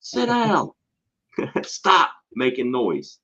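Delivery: high-pitched, drawn-out yell; retold losing-it yell. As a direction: yell it like a fed-up teacher at screaming kids. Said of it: "I lost it. I said".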